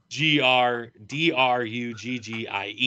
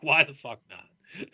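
slow, laughing through the words; real laughter in the line; 2 semitones higher, 3 dB quieter than usual. Real, not acted. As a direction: say it while cracking up. Laughing while flipping off camera.

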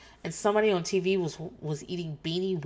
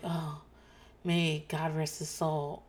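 soft, slow mock-solemn mother; softer, slower imitation of a reverent mom; pious mom; 5 dB quieter, slower than usual. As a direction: hush it like a prayer. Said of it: "She's like".

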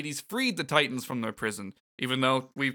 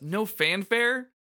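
put-on slow, higher boyish hero voice; drawn-out, puzzled young hero; Sora; 8 semitones higher, much slower than usual. Retelling Sora's line, slow and higher. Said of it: "And Sora says".

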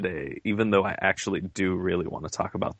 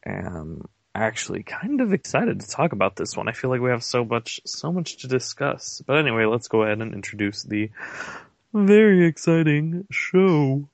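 tone contradicting words; 4 semitones higher, 3 dB louder than usual. Real, not acted. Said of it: "Well, you don't sound excited. You sound tired".

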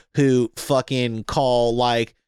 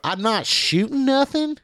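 whiny mock gamer; 12 semitones higher than usual. Mocking Call of Duty gamers.

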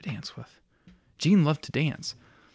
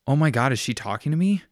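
loud and excited; 3 semitones higher, 5 dB louder, faster than usual. Acted. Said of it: "Sober Jean said loudly".

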